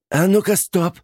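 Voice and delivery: high, loud command; sharp stop. A narrator's reading. Aunt stopping hysterical niece, sharp. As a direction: cut the hysteria short.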